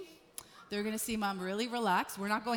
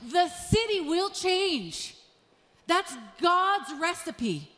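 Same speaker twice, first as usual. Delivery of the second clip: emphatic preaching with punched key words; impassioned preaching; 3 semitones higher, 4 dB louder than usual. Real, not acted. Pastor urging the church on family love, impassioned preaching. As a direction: drive each point home to the congregation. Preaches the main point with force.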